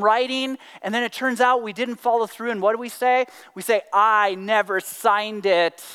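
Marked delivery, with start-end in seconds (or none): 3.9-5.8 slow, drawn-out mock denial; slippery excuse. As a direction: stretch it out as a feeble technicality. Voicing another slippery excuse.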